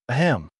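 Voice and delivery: small throat-clearing cough; a short forced cough. Acted. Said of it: "David coughed".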